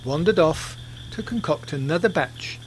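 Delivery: lively storyteller narration; story narration. A narrator's reading. Podcast narrator telling the Banania tale in storyteller style. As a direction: spin the tale for listeners.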